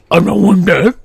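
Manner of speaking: loud, strained cartoon Shaggy voice; Shaggy impression. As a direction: do Scooby-Doo's Shaggy, hammed up. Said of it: "that is my best Shaggy".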